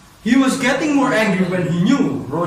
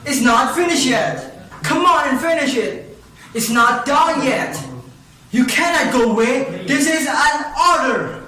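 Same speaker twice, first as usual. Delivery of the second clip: raised, higher pitched shout; shouting commands; 5 semitones higher than usual. Acted. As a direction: yell after the fleeing genies. Giant commands fleeing genies.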